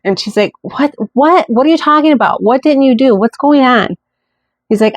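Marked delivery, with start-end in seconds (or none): 0.6-4.0 high-pitched rapid-fire bewildered questions; retold bewildered alarm. Wife answering husband's distressed call, imitated bewildered alarm.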